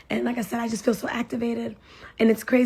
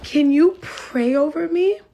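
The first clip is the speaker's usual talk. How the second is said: higher, louder imitation of a tearful plea; tearful plea, imitated; 5 semitones higher, 6 dB louder, slower than usual. Crying mother asking a stranger for prayer, imitated tearful plea. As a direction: plead it in her higher voice, lightly acted. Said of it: "She started crying".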